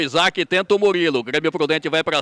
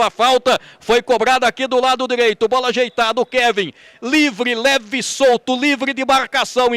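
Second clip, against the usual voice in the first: excited replay; 4 semitones higher than usual. Real, not acted. Replaying the goal, still elated.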